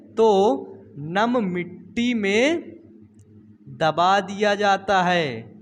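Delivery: slow, word by word, for note-taking; slow dictation. Shown as a demonstration. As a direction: spell it out slowly so students can write. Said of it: "कहो किसमें?". (धीरे-धीरे लिखवाते हुए)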